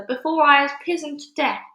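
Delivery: shouted. A narrator's reading. Scared giant begging the BFG to hurry, shouting. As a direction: urge him on in fright. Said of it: "shouted the flesh lump eater".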